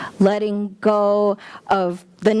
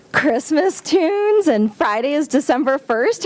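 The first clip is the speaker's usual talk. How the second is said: ordinary talk, nothing marked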